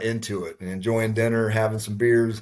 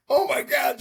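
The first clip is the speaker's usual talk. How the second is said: high-pitched retold disbelief; mock shock. Husband hearing about the New Zealand hunt, acted shock. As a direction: send the voice way up, overwhelmed.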